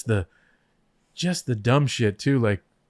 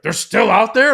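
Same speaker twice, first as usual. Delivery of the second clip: high, loud disbelieving question; can't believe they're still out there; astonished; 8 semitones higher, 7 dB louder than usual. Retold or imitated. Vince asking backstage, shocked the crowd stayed.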